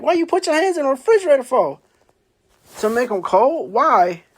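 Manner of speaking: incredulous sister. Retold or imitated. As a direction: fire off the questions like a baffled sister.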